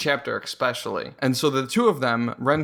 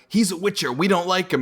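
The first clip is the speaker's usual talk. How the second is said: higher-pitched acted grievance; henchmen's complaint; 4 semitones higher, faster than usual. Henchmen complain to their boss.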